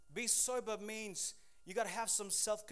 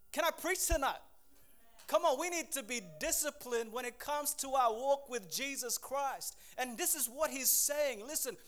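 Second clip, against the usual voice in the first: raised, driving preacher voice; full-force preaching; 2 semitones higher than usual. Acted. Preacher urging the congregation to discipline, full-force preaching. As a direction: push it like a revival preacher building.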